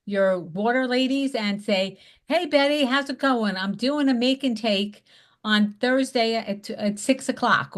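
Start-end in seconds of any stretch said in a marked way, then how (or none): 2.3-7.8 bright, upbeat phone greeting, pitched up; cheerful invite call. Shown as a demonstration. Calling a customer to invite her to a make and take, excited. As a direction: sound thrilled to hear from her. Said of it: "they wanna hear that excitement in your voice".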